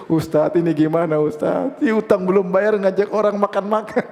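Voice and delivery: half-laughing mock grievance to a teacher; baffled complaint. Friend complains to ustadz about debtor treating others, mock exasperated. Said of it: "Temannya pusing".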